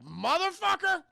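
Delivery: high, slow, drawn-out mock outrage; hammed-up fed-up blob; exasperated curse. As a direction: draw the curse out high in disbelief. Acting pestered blob's exasperation.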